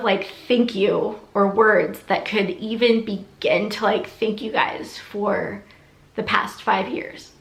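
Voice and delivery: holding back tears while thanking; teary-eyed. Real, not acted. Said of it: "getting all teary-eyed".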